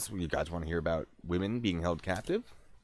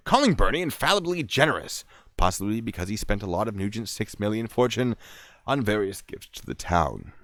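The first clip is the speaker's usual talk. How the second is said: punchy true-crime reading voice; theatrical article read, drawing out the key names; dramatic story narration; 4 semitones higher, 6 dB louder than usual. Acted. Reads article.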